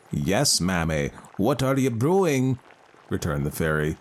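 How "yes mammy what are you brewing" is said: put-on very old man voice. Fairy asks.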